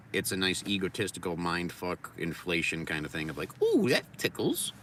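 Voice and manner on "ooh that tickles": high, slow silly put-on voice; mock tickled. His ego getting tickled, high and slow. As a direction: coo it like a flattered ego.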